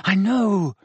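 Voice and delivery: high, breathless reply; slightly panted, urgent; a touch out of breath; panting. A narrator's reading. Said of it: "Harry panted".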